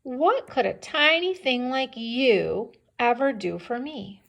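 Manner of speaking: lightly voiced lion, incredulous at the mouse; mock-incredulous question, pitch slightly lifted; scoffing lion. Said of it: "He laughs at the idea".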